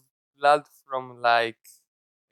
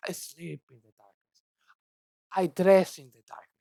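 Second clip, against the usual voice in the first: Batman darkness speech. Retold or imitated. Mocking Light with a brooding Scottish villain voice. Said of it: "I don't know what this accent is".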